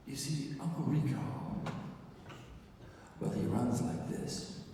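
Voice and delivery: halting, long pauses between phrases; hemming and hawing. Retold or imitated. Shy director trying to explain a character, haltingly. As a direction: imitate someone struggling to get it out. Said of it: "he's, like, hemming and hawing".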